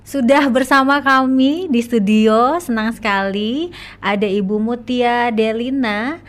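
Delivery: radio host intro. Real, not acted.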